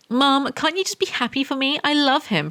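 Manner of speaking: put-on high pleading girl voice; lightly voiced whiny teen; whiny teenager. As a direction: beg mum like a teenager. Voicing Anna pleading to mum.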